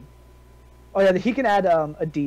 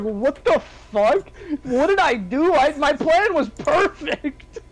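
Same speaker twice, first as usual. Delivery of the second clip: high, incredulous mock outrage; baffled villain; 9 semitones higher, 3 dB louder than usual. Player voicing the foe whose plan failed, high and baffled. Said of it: "this guy's gotta be like".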